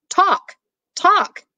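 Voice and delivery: high, separated single words; high-pitched insistent prompting; acted insistent repeat. A narrator's reading. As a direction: say each one high and distinct, as if to someone upstairs. Mama repeats word to upstairs daughter.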